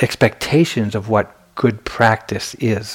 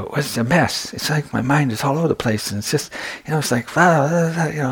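higher-pitched, mildly frazzled babble; retold flustered report; 5 semitones higher than usual. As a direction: replay a rattled student spilling it all out.

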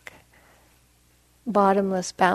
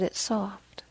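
soft, hushed and relaxed; retold relaxed relief; 7 dB quieter than usual. Woman discovering softness as she falls, retold in a relaxed hush. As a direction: say it softly, as if settling into calm. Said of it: "her body totally relaxed".

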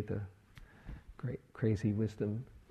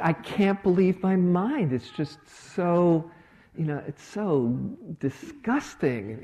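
higher, louder, laughing through the words; amused exasperation at her own mind, slowing on disgusting; laughing disbelief; 7 semitones higher, 5 dB louder than usual. Retold or imitated.

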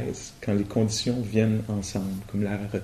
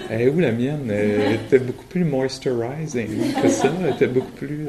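laughing; 4 dB louder than usual. Real, not acted. Joking about face in mirror.

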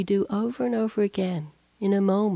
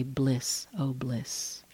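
much softer, lower, savoring each word; soft blissful sigh; 5 semitones lower, 10 dB quieter, much slower than usual. Retold or imitated. Monk explaining to the Buddha, sighing softly in bliss. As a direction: let the bliss out in a contented breath.

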